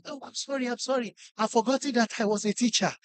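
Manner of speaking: soft, retold sheepish apology; mock apology. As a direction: shrink back into a quiet apology. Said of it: "what's wrong with you".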